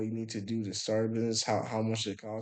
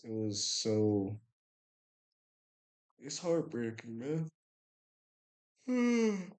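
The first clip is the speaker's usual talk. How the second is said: choked up; slower than usual. Real, not acted. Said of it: "I guess I'm getting choked up".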